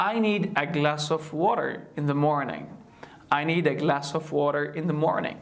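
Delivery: WATER with a quick D-like tap for T; flap T. Shown as a demonstration. Teacher gives an example sentence, WATER with flapped T. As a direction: flow through the sentence, tapping the T in WATER. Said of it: "like I can say an example".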